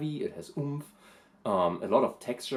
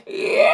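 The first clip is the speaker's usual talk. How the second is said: very high, loud screamed yells; head fry scream; 10 dB louder than usual. Shown as a demonstration. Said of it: "This is what I would consider a head fry".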